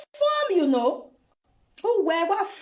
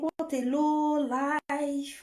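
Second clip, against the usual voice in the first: slow contempt; 3 semitones lower, 3 dB quieter, much slower than usual. Real, not acted. Contemptuous verdict.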